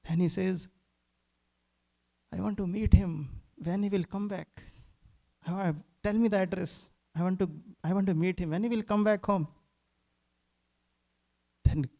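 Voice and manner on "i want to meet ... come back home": eager pleading. Retold or imitated. Thief pleads to meet Krishna.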